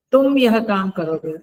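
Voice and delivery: तुम hit hard at the start, the rest lighter; stress on तुम. Shown as a demonstration. Teacher singling out one person in a group, stress on तुम. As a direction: punch the word तुम in तुम यह काम करोगे. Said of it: "लेकिन जब बल लगाकर बोलते हैं".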